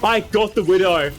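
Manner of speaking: excited callout. Real, not acted. Gamer announcing a kill to the team, excited. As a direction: crow about the kill.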